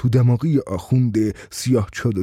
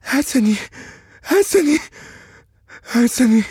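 calling Hasani, rising; 11 semitones higher, slower than usual. Acted. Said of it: "آهسته گفتم".

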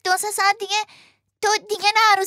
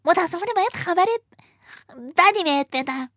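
sighing marmot; 2 semitones lower than usual. Acted. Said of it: "آهی کشید و گفت".

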